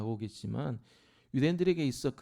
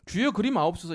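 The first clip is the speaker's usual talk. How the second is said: mock protest; 4 semitones higher, 7 dB louder than usual. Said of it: "그러면서 뭐예요?".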